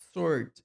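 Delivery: "sword" said as sord, no w, stressed and loud; silent w. Shown as a demonstration. Teacher stressing the correct "sword" to the class. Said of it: "Não é sword, mas".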